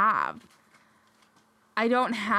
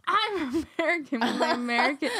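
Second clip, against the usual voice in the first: hammed-up super American accent, higher; exaggerated American accent; 3 semitones higher than usual. Host announcing a super American voice, hammed-up American accent. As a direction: lay the American accent on thick. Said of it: "like, super American".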